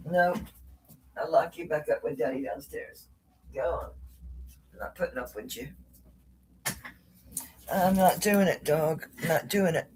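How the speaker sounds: scolding the dog. Real, not acted. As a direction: tell the dog off, half under breath.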